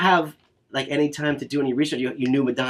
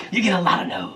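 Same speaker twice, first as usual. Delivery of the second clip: said through a laugh, higher pitched; 5 semitones higher than usual. Real, not acted. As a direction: laugh as you repeat it. Laughs while repeating the hard truth.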